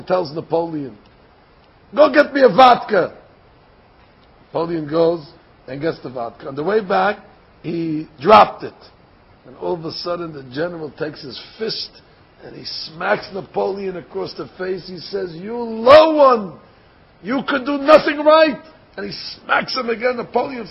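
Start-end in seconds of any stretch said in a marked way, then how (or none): 1.9-3.1 firm, emphatic command; barked-out order. Acted. General ordering Napoleon to fetch vodka, commanding. 15.3-18.6 drawn-out insult, rising higher; acted scolding. General smacking Napoleon as a cover, acted scolding.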